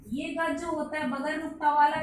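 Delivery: ordinary delivery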